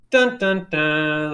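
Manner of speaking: mock game-over sting; sung-out dun dun dun; video game jingle. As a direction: sound out a losing jingle. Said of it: "It was like a video game".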